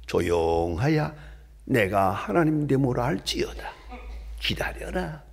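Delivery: lightly voiced divine command, slow opening; a measured hint of God's voice. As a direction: speak as God calming a clamoring crowd, softening at the end. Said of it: "하나님의 음성은 들려옵니다".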